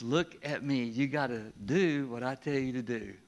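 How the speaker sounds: a hint of a strict parent; stern parent. Parent telling little ones to obey, lightly stern. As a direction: lay down the rule to a child. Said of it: "To the little ones".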